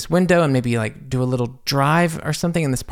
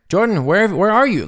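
higher, louder call of her name; calling out urgently; 8 semitones higher, 3 dB louder than usual. Retold or imitated. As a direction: summon her impatiently across the set. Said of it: "he's like".

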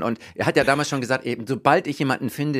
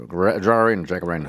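Jaccarino amerikanisch mit tiefer Stimme; american accent in german; 7 semitones lower than usual. Shown as a demonstration. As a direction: Jaccarino mit übertriebenem US-Akzent. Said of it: "mit viel amerikanischem Akzent". (amerikanischer Akzent)

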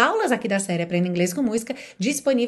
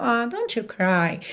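slow tender comfort; soft consoling; slower than usual. Shown as a demonstration. Teacher comforting a crying friend, slow and soft. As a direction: soothe them gently and slowly. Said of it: "você tá ficando triste de ver a pessoa chorando".

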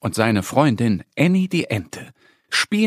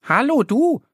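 a bit cross; 10 semitones higher than usual. Acted. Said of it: "guckt ein wenig böse".

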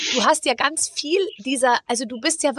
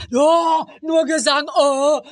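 put-on loud, high whiny kid yell; mock child shout; 3 semitones higher, 4 dB louder, much slower than usual. Son acting up during the opera, loud mock yell. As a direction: act out the son's protest, loud and high. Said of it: "der immer".

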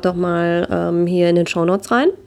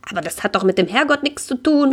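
much higher, aghast cry of protest; horrified exclaim; 6 semitones higher than usual. Acted. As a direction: protest in shock, voice shooting up. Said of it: "ruft sie ganz entsetzt".

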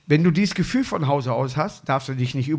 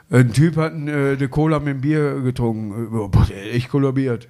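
banged-out joke, dropping lower toward the punchline; just push straight through the joke, no ceremony; joke rattled straight out; 5 semitones lower than usual. Shown as a demonstration. Comedian showing how to tell a pun, straight-through delivery. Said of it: "wenn du den jetzt einfach nur durchhaust".

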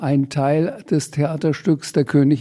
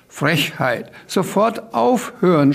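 higher, slow outraged command; indignant shout; 5 semitones higher than usual. Acted. Dripping manager yells at Sams to stop, indignant shout. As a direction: scold the chaos to a halt. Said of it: "schrie unterdessen der tropfende Abteilungsleiter".

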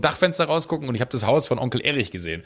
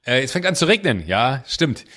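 laughing excuse; 4 semitones higher, 4 dB louder than usual. Retold or imitated. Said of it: "meinte ich so".

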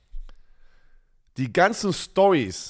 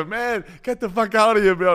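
annoyed American; 6 semitones higher, 4 dB louder than usual. Retold or imitated. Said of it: "Und er so".

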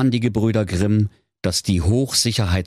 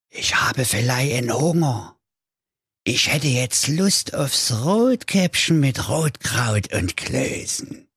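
hungry wolf; 6 semitones higher than usual. Acted. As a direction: play the greedy wolf licking his lips. Wolf spricht im Märchen.

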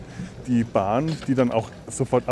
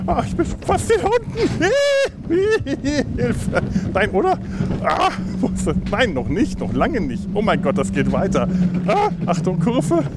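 sledding downhill; 9 semitones higher than usual. Real, not acted.

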